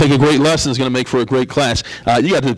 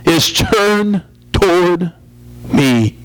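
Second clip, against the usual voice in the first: put-on higher boy's voice with a mild whimper; 7 semitones higher than usual. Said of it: "the little boy whimpered and said".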